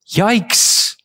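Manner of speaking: high, startled yikes; mock alarm. Preacher feigns shock at the church confronting sin. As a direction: pretend to recoil from the verse.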